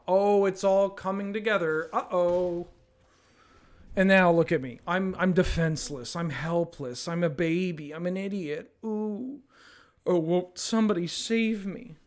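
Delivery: hammed-up damsel in distress; fluttering cries for help. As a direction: flutter out helpless cries, mock despair. Mock damsel pleading, his creature helpless.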